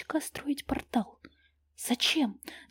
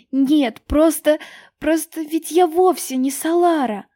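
loud, higher outburst; blurted out; 6 semitones higher, 9 dB louder, slower than usual. A narrator's reading. Таня выпаливает признание Сильверу, громко. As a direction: burst out the confession. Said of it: "И девушка выпалила".

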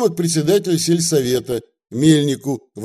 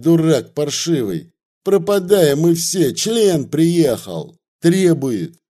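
louder, panicked scolding; yelling in panic; 3 semitones higher, 3 dB louder than usual. Acted. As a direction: curse him out in a panic. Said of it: "сразу заорал". (Вавила в панике орёт на Настасея)

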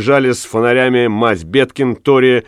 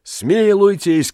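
high, drawn-out desperate cry; anguished plea; crying for mercy; 10 semitones higher, slower than usual. A narrator's reading. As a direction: beg for mercy at a high pitch. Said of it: "кричал Рыбник".

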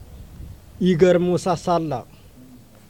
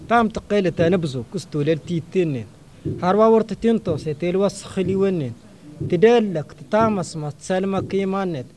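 rhythmic verse recital with falling line ends; poem recitation; 2 semitones higher than usual. Acted. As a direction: recite steadily, line after line, pausing after each.

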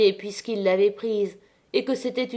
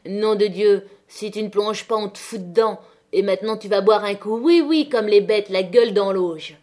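taunting yell; 5 dB louder than usual. Acted. Woman taunting the traitor.

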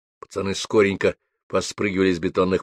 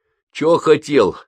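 put-on louder, slow cocky teen retort; rude challenge; 7 semitones higher, 5 dB louder, slower than usual. A narrator's reading. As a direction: throw it back with a sneer. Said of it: "грубо с вызовом ответил Лёнька Жмых". (грубо, с вызовом, громче)

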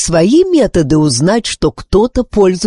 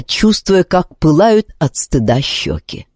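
plain reading voice

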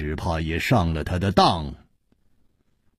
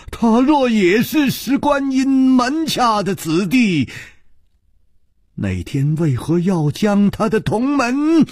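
higher and louder, harsh demand; sharp stern voice; 11 semitones higher, 3 dB louder than usual. Acted. Li Yuhan sharply demands an answer from Chu Liuxiang. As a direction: bark the question at him. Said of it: "厉声说".

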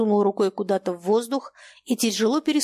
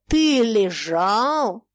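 slow incredulous sneer; 5 dB louder, much slower than usual. Acted. Old man incredulous, mocking.

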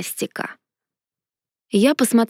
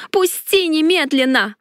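angry demand; 5 semitones higher than usual. A narrator's reading. Struggling, demanding release.

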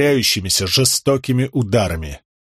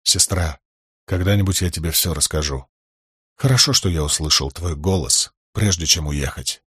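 lower, quieter, tender; a little softer; 5 semitones lower than usual. A narrator's reading. Brother speaks gently to his sister before leaving, softer. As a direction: gently promise her, softly. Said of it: "продолжил чуть тише".

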